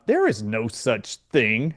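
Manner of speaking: slow, spaced-out official denial; retold dismissal. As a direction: imitate a clerk slowly denying it. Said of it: "went like this".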